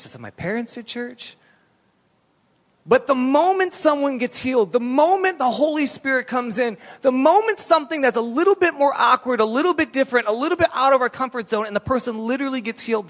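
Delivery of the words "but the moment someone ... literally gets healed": high, loud building sermon cadence; fiery preaching. Acted. Pastor challenging the church about healing, fiery preaching. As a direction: preach it hard to the congregation.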